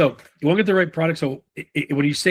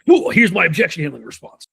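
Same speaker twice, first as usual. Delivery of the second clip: mock canned pitch; 5 semitones higher, 3 dB louder than usual. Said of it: "so that it doesn't sound like".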